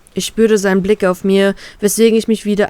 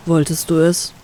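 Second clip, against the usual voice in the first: abrupt male question; 3 semitones lower than usual. Acted. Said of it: "unterbricht er plötzlich".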